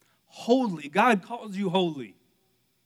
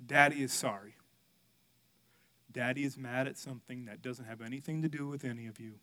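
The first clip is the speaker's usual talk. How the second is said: lower, quieter, contrite explanation; retold gentle apology; 3 semitones lower, 5 dB quieter than usual. Dad apologizing to his kids after snapping, gentle. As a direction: settle down and own up gently.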